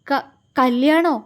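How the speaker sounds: slow, stammering and shaken; trembling voice. Acted. Sick girl hearing he will marry, asks in a trembling voice. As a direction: falter over the word in disbelief. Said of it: "വിറയാർന്ന സ്വരത്തിൽ അവൾ ചോദിച്ചു".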